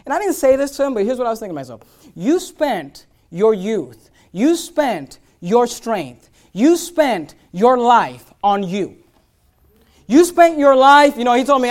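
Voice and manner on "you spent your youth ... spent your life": each you spent your dragged out and pressed hard; slow pounding of you spent your, growing louder; building slow sermon emphasis; slow hammered repetition. Acted. Preacher hammers the lonely man.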